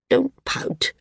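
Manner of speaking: put-on old woman snapping at the sulking singer; sharply. A narrator's reading. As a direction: scold him sharply for sulking. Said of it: "she said sharply".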